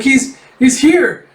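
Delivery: high, loud, slow stammer of dread; hammed-up frightened stutter; mock screaming panic. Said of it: "you hear him just screaming".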